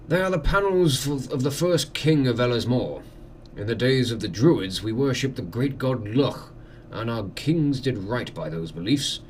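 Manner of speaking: lightly voiced courteous lord; manor host. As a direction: welcome a guest with formal hospitality.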